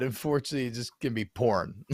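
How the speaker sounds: "porn" said as one syllable in place of "pouring"; misheard imitation. Friend mimicking the misheard forecast, "porn" as one syllable. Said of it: "It sounded like you said".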